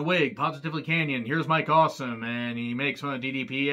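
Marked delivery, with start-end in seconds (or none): 1.3-2.2 a light, passing imitation of DDP hyping Awesome; lightly voiced DDP announcing Mike Awesome; DDP impression. Recapping Kanyon's bit for viewers, a light DDP impression. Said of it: "not that bad of a D D P impression".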